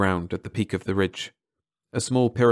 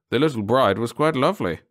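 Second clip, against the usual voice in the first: a lightly voiced leering guard, a touch higher; sly guard admiring the bride, lightly voiced; lighter guard voice; 4 semitones higher than usual. A narrator's reading. Guard remarking to his partner, lightly voiced leer.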